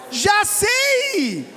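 quick loud exclaim of "Já sei!"; the magic words. Retold or imitated. Pastor acts out the wife's magic phrase, loud and bright. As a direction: blurt "Já sei!" like the answer just clicked. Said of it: "Qual foi a que eu falei?".

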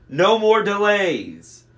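slow, loud, high monster roar; demanding monster. A narrator's reading. Monster demands an end to stalling.

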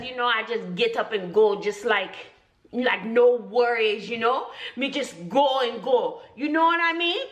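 playful Jamaican patois character; lilting, easygoing Jamaican accent. Acted. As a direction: put on a laid-back Jamaican persona.

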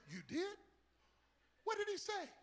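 high, loud, wide-eyed questioning; hammed-up amazed curiosity; eager astonishment. Assistant asking what the Lord said, acted excited astonishment.

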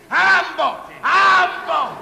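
triumphant bingo shout; excited shout. Acted. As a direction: yell it like a tombola win. Winning tombola call, shouted.

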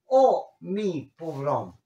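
a slow, drawn-out oh mi pobrón; mock lament. Shown as a demonstration. Teacher acting a self-pitying sigh as an example. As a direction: sigh it out slowly. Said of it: "Capel dice co".

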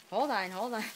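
breathless from excitement; out of breath. Real, not acted. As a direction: puff it out, short of breath. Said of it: "Catch your breath".

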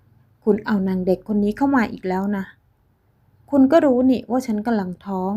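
jab the words at him, rising in anger; accusing outburst. Acted. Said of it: "ลินดามายืนกระแทกเท้าชี้หน้า".

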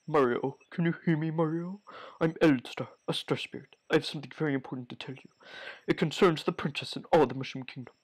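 soft, fast spirit voice; lightly voiced star spirit. Star spirit calling Mario in a dream, lightly voiced. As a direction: deliver an urgent message from afar.

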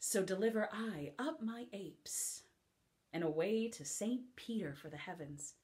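playful mocking stage speech; lively comic verse; witty Beatrice monologue. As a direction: tease the idea of a husband.

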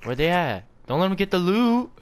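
shouting to teammates; urgent call over the game; yelling across the room. Real, not acted. Urging team mid-fight.

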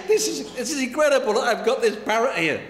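a touch of acted amazement; mildly ecstatic. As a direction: gush a little, acting the delighted owner. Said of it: "the man is ecstatic".

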